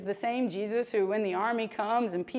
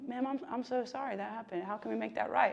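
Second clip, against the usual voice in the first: mimicking a soft apology, quieter; apologetic; 6 dB quieter than usual. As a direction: imitate a meek customer-service apology. Mimicking an apologetic service worker.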